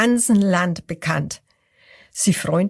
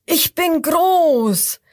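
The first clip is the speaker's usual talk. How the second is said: high, slow and louder; proud shout; 9 semitones higher, 4 dB louder, much slower than usual. A narrator's reading. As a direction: puff up and bellow it. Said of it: "Das zweite ruft".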